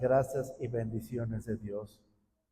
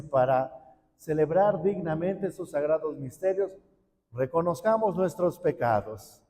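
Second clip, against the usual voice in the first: priest's liturgical words; 2 semitones higher than usual. Shown as a demonstration. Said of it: "si el sacerdote dijera".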